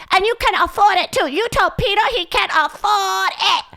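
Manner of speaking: high-pitched mock Asian accent, nagging instructions; mock Asian accent, high and insistent; imitating Asian mom. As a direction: lecture like the bossy mom on a voicemail, voice pushed way up. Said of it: "would do this bit about how her mom".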